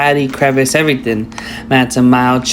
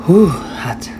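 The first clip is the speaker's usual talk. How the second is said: gasping at hot food; 3 semitones higher than usual. Real, not acted. Hot bite in mouth.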